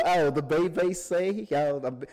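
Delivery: laughing, light British accent. Shown as a demonstration. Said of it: "hear that authentic British accent one more time".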